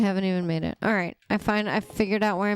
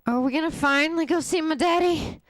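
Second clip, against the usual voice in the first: put-on childlike voice; 4 semitones higher than usual. Mimics childlike character wanting daddy.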